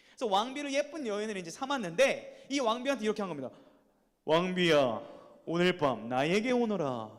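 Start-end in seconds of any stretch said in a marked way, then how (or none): 4.2-7.1 lightly voiced king calling his queen, a touch louder; a hint of a regal summons; commanding king. King summons his queen at night, mildly commanding. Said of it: "이렇게 하면 좀 올만하죠, 목소리가?".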